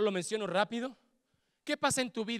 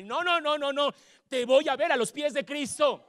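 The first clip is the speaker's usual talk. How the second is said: higher, louder mother insisting; a mother refusing to give up; insistent mother; 5 semitones higher, 5 dB louder than usual. Retold or imitated. Mother shouting her faith at her son.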